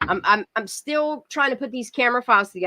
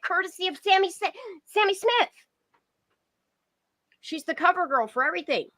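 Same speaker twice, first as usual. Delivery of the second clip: incredulous rant; 5 semitones higher than usual. Real, not acted. Streamer ranting to chat about the police, incredulous. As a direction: pitch climbing higher in disbelief.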